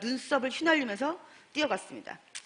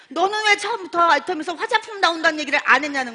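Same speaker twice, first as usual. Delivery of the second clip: louder, higher telling-off; a friend's indignant complaint, lightly played; mock scolding; 5 semitones higher, 6 dB louder than usual. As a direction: scold her friend, half laughing. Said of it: "저를 막 혼내는 겁니다".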